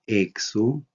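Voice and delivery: "exo" with a weighted, drawn-out E; stress on accented syllable. Shown as a demonstration. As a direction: lean on the first syllable of "exo". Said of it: "el tono de la voz debe cargarse en la sílaba". ("exo" con la voz cargada en la e)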